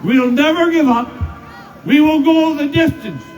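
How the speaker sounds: rising rally oratory, punching each line; rally a cheering crowd; roaring rallying speech. Real, not acted.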